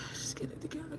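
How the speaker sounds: sigh, then whisper to yourself; very soft, voiceless mutter under the breath; barely audible self-talk on a sigh; muttered aside. Real, not acted. Sighing aside to herself while fumbling.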